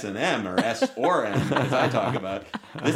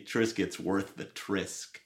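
soft slogan; 5 semitones lower, 10 dB quieter, slower than usual. Pretend. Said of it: "their slogan".

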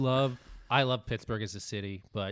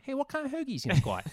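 put-on high Pittsburgh yinzer accent ordering food; a lost Pittsburgh guy in a pupuseria, Pittsburgh accent; Pittsburgh man; 13 semitones higher than usual. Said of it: "a very lost Pittsburgh man".

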